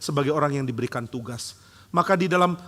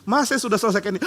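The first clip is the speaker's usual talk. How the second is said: proud report; 7 semitones higher, 4 dB louder, faster than usual. Pretend. Child proudly reporting a finished task.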